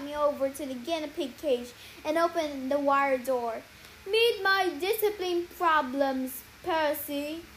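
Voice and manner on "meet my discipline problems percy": warning. Acted. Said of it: "she warned".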